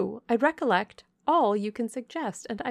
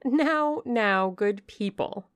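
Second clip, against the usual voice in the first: scornful dismissal; 3 semitones higher, 4 dB louder than usual. Acted. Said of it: "returned Miss Ingram".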